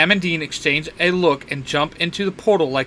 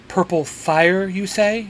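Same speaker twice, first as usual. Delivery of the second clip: slow inquiring; 4 semitones higher, slower than usual. Acted. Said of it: "Magnus inquires".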